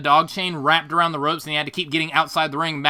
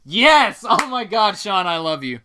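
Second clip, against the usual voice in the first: loud, raised cry of glee; delighted outburst; 3 semitones higher, 4 dB louder than usual. Real, not acted. Co-host thrilled the reference was confirmed, excited exclamation. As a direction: burst out with delighted approval.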